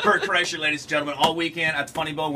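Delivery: announcer plug. Real, not acted. Host tells listeners who plays all weekend, announcer plug. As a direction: present the guest to the crowd. Host plugging the guest's show.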